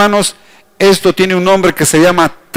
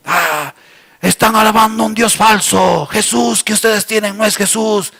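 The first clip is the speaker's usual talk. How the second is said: imitated megaphone heckler; 3 semitones higher, 3 dB quieter than usual. Outside heckler interrupting the pastor's preaching, mock megaphone voice. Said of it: "el señor con un megajo".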